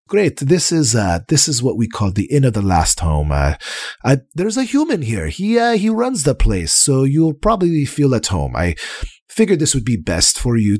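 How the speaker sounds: a hint of a chirpy host; guide character voice. Hemlock NPC speaking to party.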